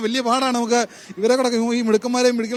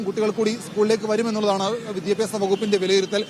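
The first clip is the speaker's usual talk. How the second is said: steady reporter's delivery to camera; live news report; 2 semitones lower, 3 dB quieter than usual. Acted.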